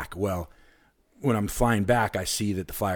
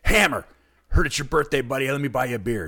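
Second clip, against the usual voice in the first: higher, louder brash birthday greeting; excited greeting; 4 semitones higher, 3 dB louder, faster than usual. Retold or imitated. Tipsy fan rolling up on his hero, a higher brash greeting. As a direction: call out boldly like a fearless fan. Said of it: "and I'm like".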